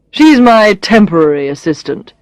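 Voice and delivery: "temporary" given pointed emphasis; stress on temporary. A narrator's reading. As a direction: lean on the word "temporary" to belittle. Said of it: "emphasizing the word temporary".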